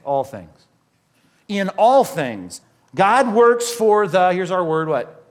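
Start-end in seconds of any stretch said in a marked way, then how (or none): 1.5-4.3 slow, louder verse reading with All stressed; preacher reading scripture slowly and loudly; slow emphatic reading. Shown as a demonstration. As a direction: read it word by word so it sinks in.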